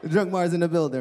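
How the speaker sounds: hype announce. Retold or imitated. Announcing drunk self.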